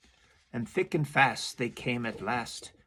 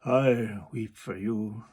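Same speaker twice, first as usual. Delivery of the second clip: mock weeping walrus; 2 semitones lower, 3 dB louder, slower than usual. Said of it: "the walrus said".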